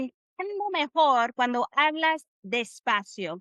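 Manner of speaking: "Entiendo mejor cuando hablas despacio" in measured Spanish; careful, even demonstration of "Entiendo mejor cuando hablas despacio"; pronunciation model. Shown as a demonstration. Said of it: "so it sounds like this".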